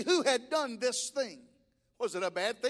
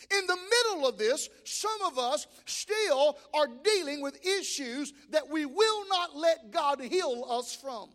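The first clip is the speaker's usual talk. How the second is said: preaching; 2 semitones higher than usual. Real, not acted. Preacher urging the congregation, rising fervor. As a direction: build the sermon with fervor.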